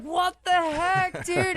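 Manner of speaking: high, drawn-out mock wail; overwhelmed disbelief. Retelling the news of her title win, overwhelmed mock wail. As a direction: wail it slowly in happy disbelief. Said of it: "I'm just crying my eyes out".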